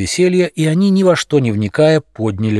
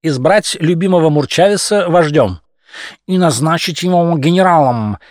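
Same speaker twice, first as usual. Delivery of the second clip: imposing; 5 semitones higher than usual. Acted. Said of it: "внушительно добавил Дрозофил".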